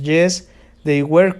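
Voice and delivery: yes, they were, drawn out slowly with a rise on were; slow model answer. Shown as a demonstration. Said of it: "Ya sabemos". (respuesta modelo lenta, alargando "were" con subida)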